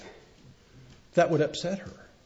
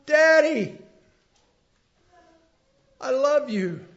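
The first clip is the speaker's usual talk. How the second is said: put-on tender, like a child; 10 semitones higher, 6 dB louder than usual. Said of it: "See the difference?".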